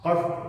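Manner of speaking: कष्ट with tongue curled back on ष; careful teaching कष्ट with retroflex sh; correct retroflex ष. Shown as a demonstration. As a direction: isolate कष्ट, ष made far back in the mouth. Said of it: "सही उच्चारण क्या होगा".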